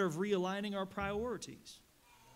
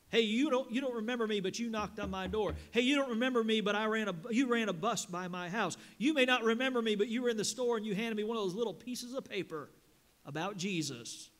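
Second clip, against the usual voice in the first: imagined grateful soul; 3 semitones higher, 4 dB louder than usual. Retold or imitated. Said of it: "come to you in heaven and say".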